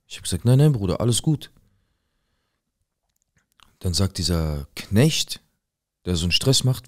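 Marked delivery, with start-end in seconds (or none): 0.5-1.5 higher and louder, waving it off; emphatic loud reassurance. Retold or imitated. Telling his neighbour nothing is wrong: loud brushing-off. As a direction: insist everything is fine, loud and bright.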